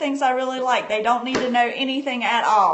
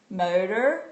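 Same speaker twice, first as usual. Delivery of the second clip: put-on motor, pause, then boat, as two parts for the child; split into parts; 3 semitones lower, slower than usual. Shown as a demonstration. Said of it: "Say it fast, Carter".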